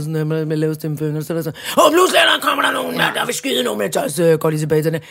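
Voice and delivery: mock low-voiced film acting; samey actor delivery. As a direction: mimic actors who all talk alike. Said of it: "alle altid kommer til at tale på den her måde".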